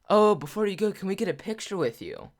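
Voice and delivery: imitated eager mom, pitched high; eager request. Mom asks the guy for a picture, eagerly.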